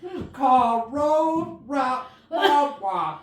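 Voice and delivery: put-on laughing old Louisiana man voice; Mudbone impression. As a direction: drag each word like the grandfather. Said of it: "My dad does talk like".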